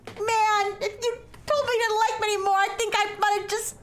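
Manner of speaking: mocking the girl. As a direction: overdo her desperate confession. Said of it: "and then she's like".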